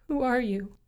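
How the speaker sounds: high, scared question; trembling. Acted. Carol facing the voice in the dark, high and afraid. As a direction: ask it shakily, startled. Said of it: "she said, trembling".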